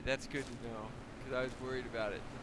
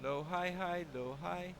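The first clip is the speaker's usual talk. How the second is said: pitched recital; 4 semitones higher, slower than usual. Shown as a demonstration. Sounding out the tone pattern.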